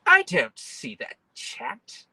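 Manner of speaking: high, slow whiny voice; high mock whine. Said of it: "people on YouTube to be like".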